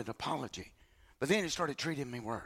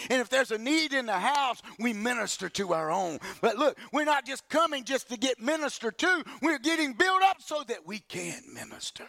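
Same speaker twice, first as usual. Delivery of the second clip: rising preacher voice, higher and louder; preaching; 5 semitones higher, 3 dB louder than usual. Real, not acted. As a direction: build the congregation up, preaching hard. Preaching builds to full force.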